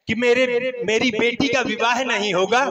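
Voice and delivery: ordinary delivery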